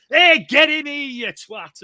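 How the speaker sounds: Megatron, Brummy style. Retold or imitated. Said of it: "you were like".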